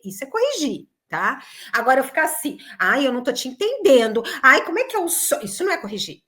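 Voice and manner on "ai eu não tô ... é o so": show-off mockery. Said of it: "isso é se exibir".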